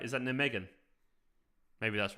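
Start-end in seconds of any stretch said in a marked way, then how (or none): 0.2-0.7 "Nijmegen" as NIM-eh-gen, softer; checking a pronunciation. Shown as a demonstration. Streamer asking if it's right, "Nijmegen" as NIM-eh-gen. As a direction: say "Nijmegen" with a short first vowel. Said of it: "Is that right?".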